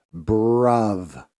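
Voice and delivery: drawn-out "bruv", one syllable ending in v; "bruv" slang pronunciation. Shown as a demonstration. Correcting a listener's slang, drawn-out "bruv". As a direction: stretch out "bruv" to its final v. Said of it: "It's bruv".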